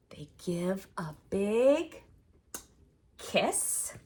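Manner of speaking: hushed bedtime whisper; whispered read. Acted. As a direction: breathe it gently. Whispered storytime line.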